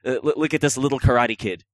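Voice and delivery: put-on loud, high taunting kid voice; mocking bully kids. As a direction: tease like a playground bully. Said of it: "the kids all look at each other and like".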